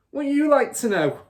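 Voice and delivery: loud, high mocking tease; taunting father. Father taunting curious Matilda, loud mocking. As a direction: jeer it at the child.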